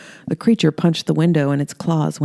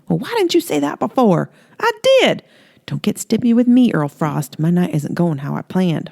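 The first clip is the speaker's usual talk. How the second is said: higher, sing-song flirty southern woman; flirty Holly; 4 semitones higher than usual. Acted. Holly flirting with Earl in her robe, high coy voice. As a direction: coo it up high, teasing him.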